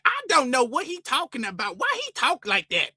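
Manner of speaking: high-pitched slangy bafflement; mock urban slang. Store worker puzzled by how a shopper talks, mock slang voice. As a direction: caricature a puzzled onlooker in broad slang. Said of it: "super ghetto urban slang".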